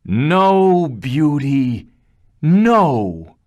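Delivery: high, loud desperate protest; brothers' anguished cry. Acted. Brothers crying out to stop Beauty, high loud protest. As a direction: forbid her with all your heart. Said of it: "cried her brothers".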